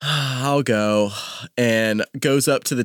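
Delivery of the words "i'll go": acted long sigh before reluctantly agreeing; resigned sigh. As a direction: sigh heavily, then give in. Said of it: "like, sighs, and he's just like".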